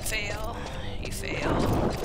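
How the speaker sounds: whispering. Pretend. Whispered mockery of pet.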